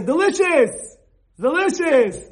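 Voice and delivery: loud, high, gushing "Delicious!"; enthusiastic praise. Shown as a demonstration. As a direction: rave about the host's food. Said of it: "so you're supposed to say".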